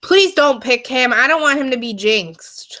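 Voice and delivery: urgent little plea; pleading. Real, not acted. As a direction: beg them not to do it. Pleading against a jinxing pick.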